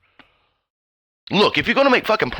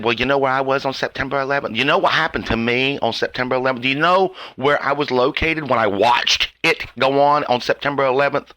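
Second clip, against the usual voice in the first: mocking self-absorbed people; 3 semitones lower than usual. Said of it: "You sons of bitches said".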